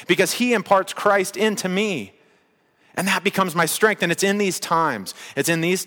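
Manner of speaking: fervent pulpit climax; impassioned preaching. Real, not acted. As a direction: preach it with mounting conviction, punching the key words.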